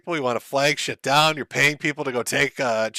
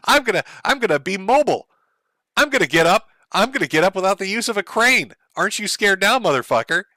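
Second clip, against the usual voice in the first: mock tough-guy threat; 5 semitones higher, 3 dB louder, faster than usual.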